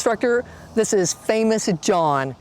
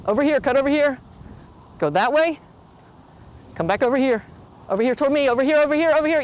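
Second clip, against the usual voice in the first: calling from far away; 5 semitones higher, much faster than usual. Real, not acted. Calling directions to the rider.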